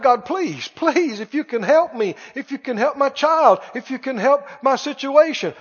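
lightly acted, repetitive pleading; mock plea leaning on "please"; imitated crying out. People crying out to God for help, imitated pleading. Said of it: "people crying out".

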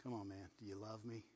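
pleading Jesus. Acted. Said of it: "This is Jesus talking to Peter".

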